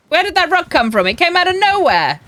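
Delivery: high, loud startled cry; shocked by a rock out of nowhere; surprised outburst. Real, not acted. Sudden rock while riding.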